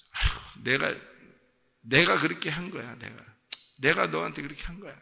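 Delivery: breathy sigh, then insistent self-blame; self-blaming parent. Acted. Parent taking a punished child's blame, acted emphatic lament. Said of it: "부모가 그런 마음을 갖는다".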